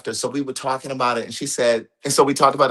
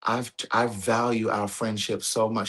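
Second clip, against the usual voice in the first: tearful friend; 5 dB quieter than usual. Retold or imitated. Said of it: "she broke down and she was crying".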